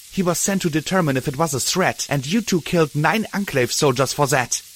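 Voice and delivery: shouting. Acted. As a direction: shout your accusations. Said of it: "Dusk shouted".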